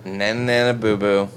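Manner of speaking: put-on childish taunt delivered deadpan; dry, unexcited teasing rhyme. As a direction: chant the playground taunt with no emotion. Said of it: "That's my favorite deadpan".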